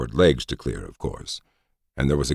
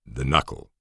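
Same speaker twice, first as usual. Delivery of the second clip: dead voice; 4 dB quieter than usual. A narrator's reading. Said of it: "Felix replied in a dead voice".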